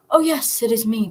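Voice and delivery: evil gloating. Acted. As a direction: gloat with a cruel smile. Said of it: "an evil smile appearing on his face".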